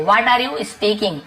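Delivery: each word said slowly and clearly for learners; slow model sentence. Shown as a demonstration. Teacher slowly models the sentence for Hindi learners. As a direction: spell it out slowly so students can copy. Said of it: "teacher models the sentence slowly".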